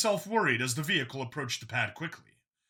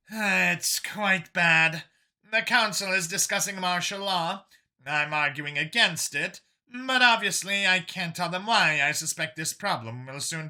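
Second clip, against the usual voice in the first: weary sigh; 4 semitones higher, 3 dB louder than usual. Acted. Yovesh woman admitting how bad it is, sighing. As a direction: let a weary sigh colour it. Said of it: "responded with a sigh".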